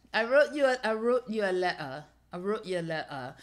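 loud, playful stab at British; attempted British accent. Shown as a demonstration. Host practising a line for viewers, playful British accent. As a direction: try British, dropping the T in "letter". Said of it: "to me, the British accent always asks a question".

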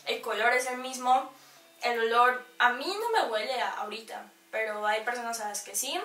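chewing while speaking; eating and talking at once; mouth partly full. Real, not acted. Seen 0: holds burger, lips pursed and working as if chewing.

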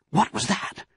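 sudden high, wary question; startled fox. A narrator's reading. Mister Fox hearing a noise, startled. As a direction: break off alarmed, pitched high. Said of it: "He turned his head sharply and listened".

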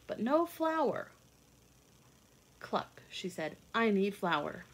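put-on lively read-aloud for young children; storybook reading. A narrator's reading. Reading a picture book aloud to kids, lively storytelling. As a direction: tell it like a bedtime picture book.

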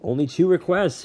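sneering, loud and high; Hades voice. A narrator's reading. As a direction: scoff with arrogant disdain. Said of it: "Hades said".

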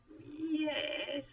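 high, drawn-out grudging yes; reluctant admission. A narrator's reading. Moses concedes the point to God, reluctant. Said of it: "admitted Moses".

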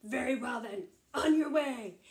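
gruffly dismissive troll; gruff troll relenting. Acted. Troll letting the littlest goat pass, gruff. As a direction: wave them on, ending loud.

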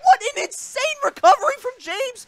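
loud, high, thrilled call; hyped caster. Real, not acted. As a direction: sell the comeback at full volume. Casters hype a recovery.

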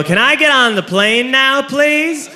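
high, slow, pleading passenger; drawn-out mock-polite plea; meek request. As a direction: ask timidly, pitch climbing to the please. Timid passenger asks airline staff.

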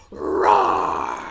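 big, loud, rasping tiger roar. Shown as a demonstration. Teacher showing children what tigers say, loud roar. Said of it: "Tigers say".

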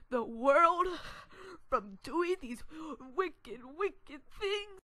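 slowing into a high, wailing preach; mock preachy lecture. Boy mocking the mom's sermon about the world, wailing. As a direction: parody a moralizing adult, hammed up.

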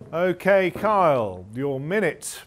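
loud, slow, drawn-out countdown; game show countdown. Acted. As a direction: count them in like a big host. Host counts contestant into timed round.

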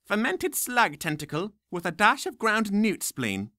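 high, slow creaky crone; old nurse voice. Acted. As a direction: relish each gross ingredient. Nurse explains the potion.

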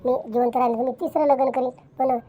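storming off. Acted. Wife leaving her husband's house, loud and indignant. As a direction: shout as you walk out.

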